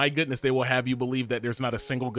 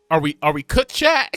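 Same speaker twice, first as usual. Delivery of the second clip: laughing; 8 dB louder than usual. Real, not acted. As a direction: laugh it out to the chat. Asking chat, laughing in disbelief.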